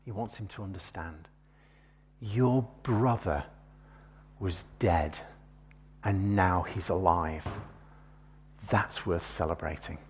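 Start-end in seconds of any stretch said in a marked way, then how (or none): 2.2-7.5 gentle father. Retold or imitated. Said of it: "that's how he phrases it".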